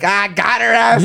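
slow, drawn-out got her; slow gotcha. Retold or imitated. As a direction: drag it out like a gotcha. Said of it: "we were all like".

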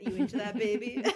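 low, softened come-on with a laugh; mock seductive. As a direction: imitate a cheesy, winking flirt. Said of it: "wink seductively".

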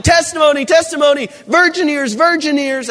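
mock scolding call. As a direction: call it out like a scandalised preacher. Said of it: "I'm like".

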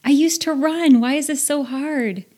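mock-frustrated self-questioning. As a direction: vent at your own failure. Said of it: "I was like".

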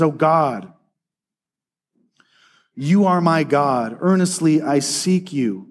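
scripture reading. Acted. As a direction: read the psalm as a heartfelt prayer. Reads Psalm sixty-three aloud.

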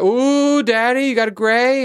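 put-on high, loud little-girl tease; teasing daughter. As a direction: play the kid gleefully pointing out the gray. Daughter voiced teasing dad.

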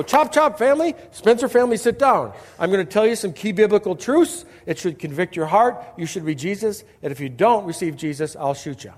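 hammed-up drill sergeant preaching at the family; mock bossy preacher. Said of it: "I didn't come in and go".

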